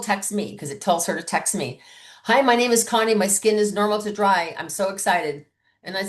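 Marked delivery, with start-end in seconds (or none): 2.2-5.5 lightly voiced eager guest; a touch of bubbly excitement; excited guest. Connie's text acted out.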